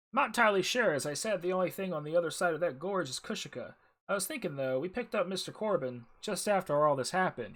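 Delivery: lively, projected reading of a character's lines; voiced-up quest briefing, lightly acted; game dialogue read-aloud. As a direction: read the dialogue out clearly with some lift.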